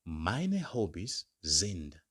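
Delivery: Meine Hobbys sind said slowly with weight on Meine; slow teacher demo; slow model phrase. Shown as a demonstration. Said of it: "I respond".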